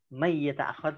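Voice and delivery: "man yata'akhir" said as "may-yata'akhir"; Quranic-style merging. Shown as a demonstration. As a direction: merge the n of "man" into the following y. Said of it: "kalau pakai bacaan Al-Quran". ("man yata'akhir" dilebur jadi "mayyata'akhir")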